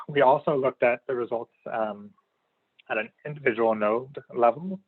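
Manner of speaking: slightly strained, worn-out voice; losing voice. Real, not acted. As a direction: speak through a tired, fading voice. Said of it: "I've lost my voice a little bit".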